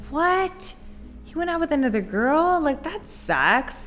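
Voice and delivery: high-pitched retold indignation; mock-offended, high and incredulous; a little upset. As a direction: protest in a high, put-out voice. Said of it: "I was a little upset about it".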